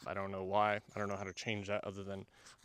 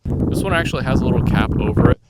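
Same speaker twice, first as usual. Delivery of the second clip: much louder, close-miked with wind noise; through the other mic; 4 semitones higher, 17 dB louder, faster than usual. Shown as a demonstration. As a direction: say it right into the clip-on mic. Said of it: "Now you can hear the wind".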